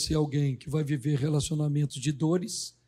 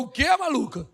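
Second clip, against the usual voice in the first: laughing Job; 8 semitones higher than usual. Retold or imitated. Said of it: "Ele falou".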